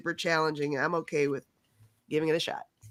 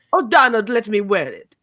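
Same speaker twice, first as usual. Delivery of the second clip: mock pleading wife; 2 semitones higher, 7 dB louder than usual. Voicing Melania pleading with Trump.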